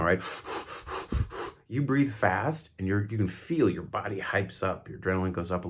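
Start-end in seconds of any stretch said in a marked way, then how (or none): 0.3-1.6 slow breath out. Shown as a demonstration. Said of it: "you can do this right now".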